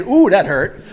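loud, laughing mock complaint of hurt; mock whimper, laughing. Sinner running back to God, laughing mock whine. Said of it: "we come running back saying".

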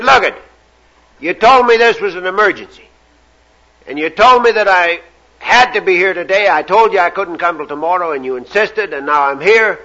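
mildly exasperated plumber's rant; losing his serenity. Acted. Plumber scolding whoever won't open the door, acted exasperation. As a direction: rattle off an acted, irritated complaint. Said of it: "he completely lost his serenity".

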